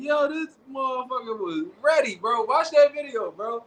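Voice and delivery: high, near-crying excitement; excited disbelief. Retold or imitated. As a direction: gush it out in amazed disbelief. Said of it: "I was like".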